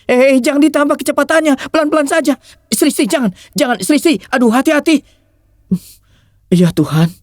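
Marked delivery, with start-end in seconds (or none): 0.1-5.0 nervous passenger. Acted. Passenger panics at fast driving.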